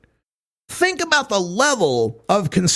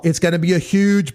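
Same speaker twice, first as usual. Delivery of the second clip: Trump impression; 2 semitones higher than usual. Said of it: "Trump's idea of".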